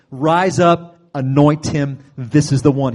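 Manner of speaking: loud commanding voice of God; loud, ringing command; booming command. Retold or imitated. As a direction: proclaim it like a divine order. God commands Samuel to anoint David.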